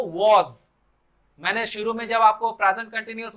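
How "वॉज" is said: वॉज with rounded aw and z ending; correct pronunciation. Shown as a demonstration. Teacher summing up the sound, correct pronunciation of वॉज. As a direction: say WAS as वॉज, ending in a buzz. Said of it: "तो वही है हमारा वो".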